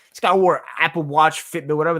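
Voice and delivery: exasperated outburst. Real, not acted. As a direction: shout it like you can't believe it. Fan ranting about a player.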